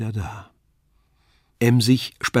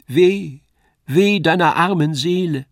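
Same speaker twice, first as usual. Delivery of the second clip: high, louder lament; sighing angel; 5 semitones higher, 5 dB louder than usual. A narrator's reading. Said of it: "Wie ein seufzender Windeshauch". (seufzender Engel, klagend und hoch)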